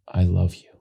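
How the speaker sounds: hammed-up emotional actor; overplayed I love you; overacted big version. Shown as a demonstration. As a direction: try too hard to show the feeling. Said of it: "I'm gonna do this to camera".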